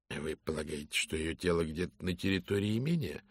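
lightly voiced gallant detective; soft courteous Poirot. Poirot asks quietly. (тихий учтивый голос)

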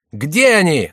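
high, loud wail; wailing cry. A narrator's reading. Favourite wailing for the Angevins. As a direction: yell it out hungry for revenge. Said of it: "завопил Шомберг".

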